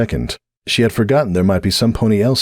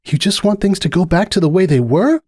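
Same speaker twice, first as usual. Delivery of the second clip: unhappy question; 12 semitones higher than usual. A narrator's reading. Starlight unhappy.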